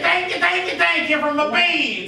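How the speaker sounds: acting out a cheerful, thankful prayer; joyful prayer. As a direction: pile up the thanks with delight. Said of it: "They pray with joy".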